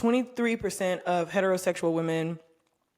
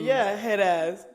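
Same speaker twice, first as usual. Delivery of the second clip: slow drawled taunt; 2 semitones higher, 3 dB louder, much slower than usual. Real, not acted. Drawn-out taunt.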